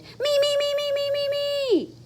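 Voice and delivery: high, eager me me me; eager shouting. Acted. Froggy begging teacher to go first, high eager. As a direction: beg to go first. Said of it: "Froggy shouted".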